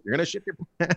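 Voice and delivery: high-pitched taunting yell. Retold or imitated. Man warning a stranger after ice cream, yelling. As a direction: call it out across the store. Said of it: "I just kept yelling at him".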